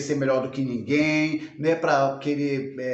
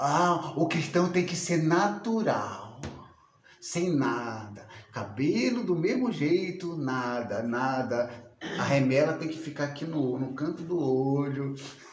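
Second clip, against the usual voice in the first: slow, preachy, sermonizing voice; 5 dB quieter than usual. Imitating what some believers say to the other speaker: imitating a preachy believer. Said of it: "como tem crente que fala".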